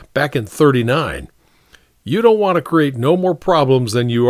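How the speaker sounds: lightly voiced, earnest sergeant; placating sergeant. Sergeant advising the captain about the men, mildly placating. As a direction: reason respectfully with your superior.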